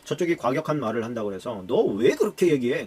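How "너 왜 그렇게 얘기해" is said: mock indignant retort, louder in bursts; raised-voice retort. Snapping back at someone who spoke harshly, raised voice. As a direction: throw it back as a loud challenge. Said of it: "그러면서 더 큰 소리로".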